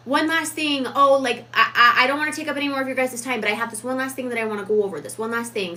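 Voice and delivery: imitating a nervous coworker rushing a last point; rushed apologetic worker. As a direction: rush through like you're wasting their time. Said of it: "People will say".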